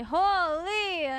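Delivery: a light Canadian "Holy". Shown as a demonstration. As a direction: give a Canadian "Holy" with a drop at the end.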